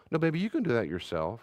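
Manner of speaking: calm, kind and reassuring; tender "you can do that yourself"; gentle parent. Retold or imitated. Gracious parent answers child.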